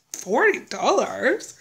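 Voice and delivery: slow, rising "Forty dollars?" asked in disbelief; slow doubtful "Forty dollars?" rising at the end; unsure question. Retold or imitated. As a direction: drag out "Forty dollars?" as if you misheard it. Retold disbelief at a low bill.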